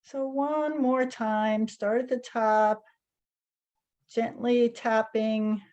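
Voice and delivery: calm, unhurried guiding with long pauses; guided meditation. Real, not acted. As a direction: gently lead a group through each movement, leaving space between phrases. Leads guided tapping meditation.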